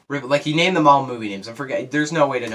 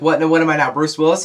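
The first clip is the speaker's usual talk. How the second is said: indignant what; 5 semitones higher, 8 dB louder, faster than usual. Retold or imitated. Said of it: "she was like".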